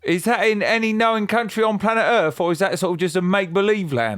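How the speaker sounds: high, twangy mock country stranger. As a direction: keep up the wide-eyed folksy customer. Continuing folksy customer character.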